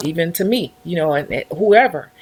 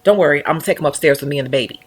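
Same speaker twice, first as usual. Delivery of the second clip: calm husband; 5 semitones lower, much faster than usual. Retold or imitated. Husband speaks, quoted.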